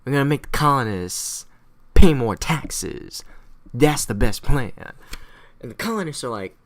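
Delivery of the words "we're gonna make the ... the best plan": loud, slow, emphatic pronouncement; London's big idea. Acted. British announcing a tax plan to themselves, slow and emphatic. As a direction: announce the scheme slowly, punching key words. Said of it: "And they're like".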